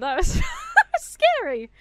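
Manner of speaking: high, slow, giggly relief; laughing with relief. Real, not acted. Player recovering from a scare, laughing. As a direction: let laughter break up the words.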